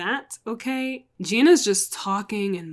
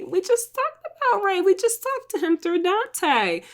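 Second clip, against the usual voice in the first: much higher, incredulous; much higher mock disbelief; exasperated; 11 semitones higher than usual. Real, not acted. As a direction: act amazed they forgot. Exasperated at viewers forgetting.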